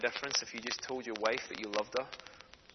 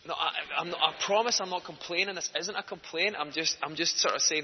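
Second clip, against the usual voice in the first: higher, hurried-to-explain protest with false starts; flustered protest; 4 semitones higher, 3 dB louder than usual. Retold or imitated. Diner insisting he isn't complaining, flustered protest. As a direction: act out an embarrassed denial.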